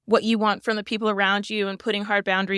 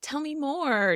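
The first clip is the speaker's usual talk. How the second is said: tag; 6 semitones higher, 4 dB quieter than usual. Retold or imitated. Mom voicing her gentle reply.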